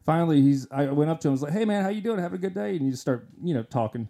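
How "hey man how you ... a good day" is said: higher-pitched casual hello; lightly acted poolside greeting; retold friendly greeting. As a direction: greet a stranger in a high, easy voice.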